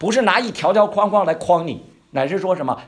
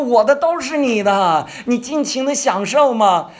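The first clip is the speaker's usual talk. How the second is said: generous father; 7 semitones higher, 6 dB louder than usual. Retold or imitated. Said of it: "但其实爸爸说".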